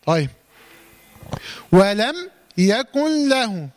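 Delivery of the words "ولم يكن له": slowly chanted, "يكن له" merged as "yakul-lahu"; silent noon. Shown as a demonstration. Teacher introducing the next verse, chanting "يكن" without its noon. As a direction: drop the n of "يكن" into a doubled lam. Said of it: "ما تنطقش النون".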